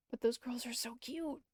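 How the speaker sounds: giddy otaku gush; gushing fanboy. Acted. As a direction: let it spill out like a giddy fan. Gushing over cute anime girls.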